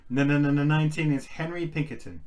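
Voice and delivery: shocked. Real, not acted. Shocked at the draw.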